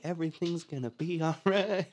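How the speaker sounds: light, put-on commercial cheer; mock uplifting. Mimicking insurance commercial music with piano, mock uplifting. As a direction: parody an uplifting advert in a put-on voice. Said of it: "like, uplifting and".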